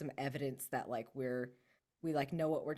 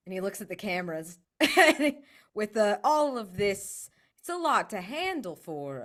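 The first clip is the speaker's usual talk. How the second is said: louder, laughing while talking; laughing through it; 5 semitones higher, 9 dB louder than usual. Real, not acted. Player describing the god's struggle, laughing aloud. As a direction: giggle through the words.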